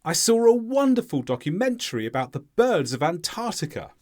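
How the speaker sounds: falling statement, beats on "wonderful" and "Antarctica"; stressed content words. Shown as a demonstration. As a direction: stress "saw", "wonderful", "birds", grammar words light. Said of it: "How would you say this?".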